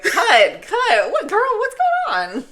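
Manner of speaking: high-pitched, exasperated mock director; mock calling cut. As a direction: call a halt to the take, hammed up. Acts out film crew stopping take.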